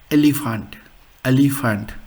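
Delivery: "elephant" said "eh-lee-FAHNT"; pronuncia tedesca. Shown as a demonstration. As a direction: say "elephant" as a German word, open a. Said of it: "So German was".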